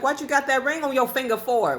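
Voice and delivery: mock confrontational demand from a stranger; aggressive old man. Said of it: "Why are you so aggressive?".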